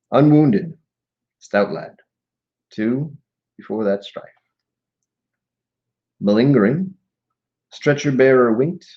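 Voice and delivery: measured poem recital with pauses between phrases; solemn verse delivery; poetry reading. Acted. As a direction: read the verse deliberately, phrase by phrase. Reads a war poem aloud.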